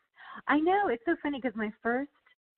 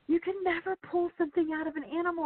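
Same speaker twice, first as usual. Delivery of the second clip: lecturing editor, mock; 9 semitones higher than usual. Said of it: "she's like".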